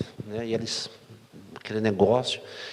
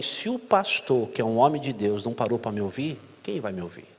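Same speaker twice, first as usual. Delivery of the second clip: tearful plea; 4 semitones lower, 6 dB quieter than usual. Retold or imitated. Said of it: "Ela subiu chorando e disse assim".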